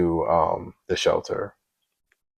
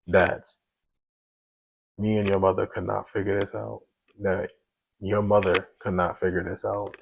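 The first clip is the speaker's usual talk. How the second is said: tearful apology. Retold or imitated. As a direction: whisper an apology through tears, pausing between words. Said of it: "started breaking down".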